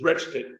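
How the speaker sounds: "retched" with a short e; "retched" rhyming with fetched; dialect RETCHED. Shown as a demonstration. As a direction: say "retched" the country way. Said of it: "if I had them pronounce it as".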